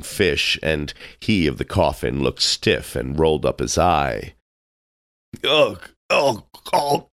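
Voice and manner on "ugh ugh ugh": high, throaty chuckle in separate grunts; mock chuckle. A narrator's reading. Tarpaulin ignores the excitement, chuckling high to himself. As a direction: chuckle in high, spelt-out bursts. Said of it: "chuckled Tarpaulin".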